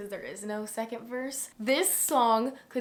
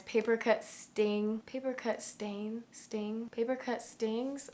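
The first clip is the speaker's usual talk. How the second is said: slow, unsure "Paper cut sting, paper cut stain" trailing off; fumbled lyrics; 3 dB quieter, slower than usual. Shown as a demonstration. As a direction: grope hesitantly through "paper cut stings" getting words wrong. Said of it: "do I not know the word".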